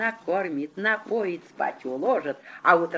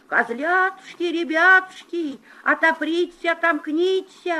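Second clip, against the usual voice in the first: wolf singing high and thin; wolf in disguise; 10 semitones higher, 5 dB louder than usual. Acted. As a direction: fake a high sweet voice. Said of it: "А волк и запел тоненьким голоском".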